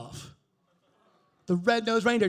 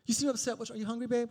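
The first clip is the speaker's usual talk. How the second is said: put-on higher, fussing girlfriend voice; concerned girlfriend; 5 semitones higher, faster than usual. Girlfriend checking on her babe, mock concern. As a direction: imitate a girlfriend coaxing out an answer.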